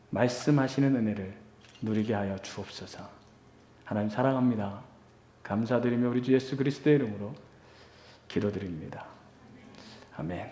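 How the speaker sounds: soft, low earnest prayer voice; hushed pastoral prayer; quiet prayer. Acted. Opening prayer before sermon.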